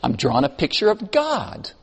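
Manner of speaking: child's matter-of-fact answer, lightly voiced. Little Katie answering her teacher, matter-of-fact retold reply. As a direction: state it simply, as if it were obvious. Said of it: "rather matter-of-factly, said".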